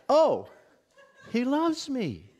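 high, loud mock gush with a laugh; mock swooning delight. Preacher imitates a believer realising God's love, mock gushing.

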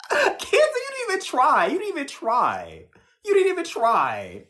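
high, laughing "you didn't even try"; laughing tease. Real, not acted. Laughing at Cancer for not guessing. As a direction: say it through laughter, mocking.

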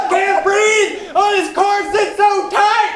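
strained yell in a tight corset; yell, gasping for air. Acted. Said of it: "Don't yell".

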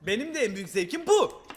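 man doing a woman's voice. Acted. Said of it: "demin adamı kadın sandık lan".

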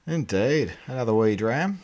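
mock Scottish accent on another wee dram; a hammed-up Scottish lilt, lightly done; shit Scottish accent. To his mate, toasting in a mock Scottish accent. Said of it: "you just wanna say it in your shittest Scottish accent".

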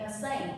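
"same" with a clear "ay" vowel; long A sound. Shown as a demonstration. Teacher drilling vocabulary, "same" said with a clear "ay" sound. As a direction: model "the same", holding the "ay" in "same". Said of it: "So this is A sound".

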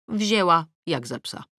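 ordinary delivery

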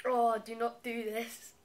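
loud, slow, pained groan; drawn-out groaning plea. Real, not acted. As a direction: stretch out the groan. Sour lemon reaction, drawn out.

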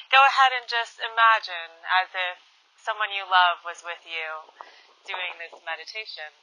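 quiet meditation guidance; meditation host. Real, not acted. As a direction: gently guide listeners, letting the phrase ends drop quiet. Invites listeners into the meditation.

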